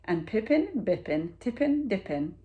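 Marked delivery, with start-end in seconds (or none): none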